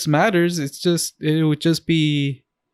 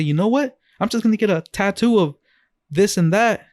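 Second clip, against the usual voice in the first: higher, eager blurt; mock excited announcement; 5 semitones higher than usual. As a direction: toss it out like a sudden decision. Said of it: "I just randomly say".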